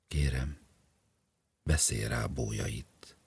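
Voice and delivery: wife whispering her plea to the professor; hushed plea. Acted. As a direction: ask him in a secret whisper. Wife asks professor secretly.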